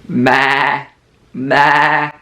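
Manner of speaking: imitating a sheep's baa; playful sheep sound for kids; sheep bleat. Shown as a demonstration. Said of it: "That's the sound that sheep make".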